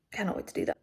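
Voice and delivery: excited but whispered; hushed echo. Real, not acted. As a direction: murmur it to yourself. Repeats it hushed.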